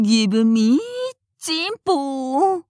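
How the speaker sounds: mock sultry. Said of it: "色っぽく".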